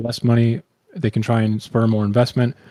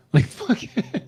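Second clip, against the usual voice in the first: exasperated; 11 semitones higher, 5 dB quieter, much slower than usual. Real, not acted. Exasperated rant.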